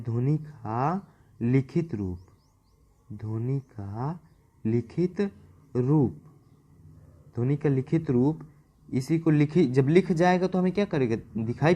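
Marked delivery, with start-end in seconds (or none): 0.0-6.2 slow and drawn out, with gaps between words; slow dictation. Shown as a demonstration. Teacher dictating the phrase for students to copy, slow. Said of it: "note करते जाएंगे".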